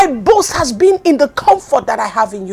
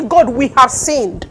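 humble confession; slower than usual. Shown as a demonstration. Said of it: "You will say".

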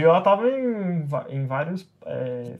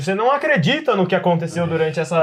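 loud shout; 4 dB louder than usual. Acted. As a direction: shout it across the hall to the minister. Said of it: "falando o mais alto que eu consigo". (chamando o ministro bem alto)

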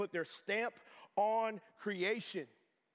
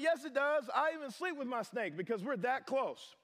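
mock protest, pitched up; lightly acted defensive pet owner, higher voice; insistent snake owner; 5 semitones higher than usual. Snake owner defending a beloved pet to the pastor, mock insistence.

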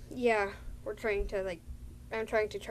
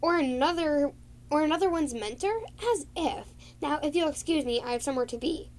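higher, a touch of scorn; haughty dismissal; 6 semitones higher than usual. Retold or imitated. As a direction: brush off the accusation. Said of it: "She was like".

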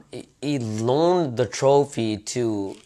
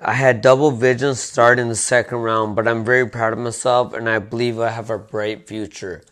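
put-on Russian accent; 5 dB louder than usual. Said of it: "you just did your Russian accent for a little Japanese guy".

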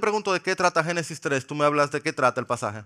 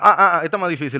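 laughing at his own stumble; flustered laugh; 2 semitones higher, 8 dB louder, much faster than usual. Real, not acted. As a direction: laugh through the fumble. Stumbles laughing over vowels.

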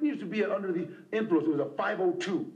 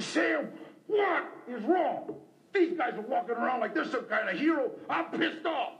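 retold anger; 4 semitones higher than usual. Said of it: "I was so angry".

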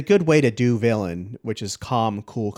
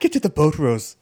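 louder put-on British accent; mock British accent; 4 semitones higher, 6 dB louder than usual. Man urging Rose off the Titanic, mock British accent. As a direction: order it in a hammed-up British voice. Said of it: "our accents sound pretty good".

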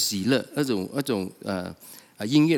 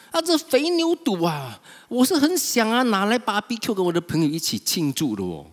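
elder son's complaint; 5 semitones higher than usual. Retold or imitated. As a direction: complain bitterly to father. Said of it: "他就对他的父亲大发脾气".

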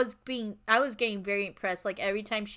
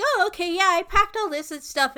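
excited; 8 semitones higher, 6 dB louder than usual. Retold or imitated. Michelle's reply quoted in story.

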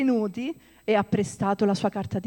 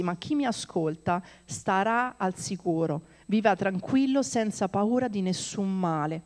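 slow reassuring reading. Acted. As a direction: reassure them gently. Slow closing scripture. (lettura lenta e rassicurante)

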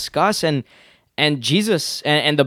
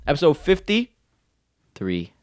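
slow announcer; much slower than usual. Acted. Drawn-out episode announcement.

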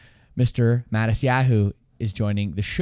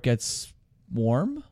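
speaking as the drink reaches the lips; words said with the beer raised to the mouth; while sipping a drink; 3 semitones lower, 5 dB quieter than usual. Real, not acted. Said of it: "let me take a sip of my beer".

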